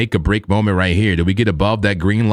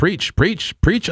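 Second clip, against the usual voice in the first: mock church cheer; 8 semitones higher, much slower than usual. Host cheering on co-host.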